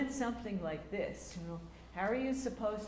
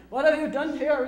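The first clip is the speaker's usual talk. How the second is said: loud, higher stage declaiming; booming tragic line; 6 semitones higher, 13 dB louder than usual. Retold or imitated. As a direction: show the pupil how to thunder it. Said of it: "And say".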